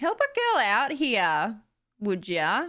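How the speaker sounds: mild, understated, sing-song Australian accent. Speaker demonstrating accents, talking like Sky from Valorant: subtle Australian accent. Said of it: "That's like my Australian accent".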